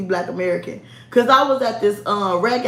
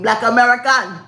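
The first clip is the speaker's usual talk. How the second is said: imitated Nigerian accent; 5 dB louder than usual. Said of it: "That's what the Nigerian podcast Pookie said".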